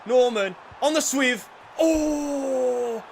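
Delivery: loud, high burst of excitement at a chance; excited shout. Real, not acted. Gamer yelling at the match on screen, thrilled. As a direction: yell at the screen as the shot goes in.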